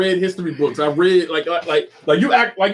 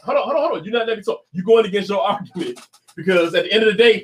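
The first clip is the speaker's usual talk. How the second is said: heated pundit debate. Real, not acted. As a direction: cut in hard and hold the floor.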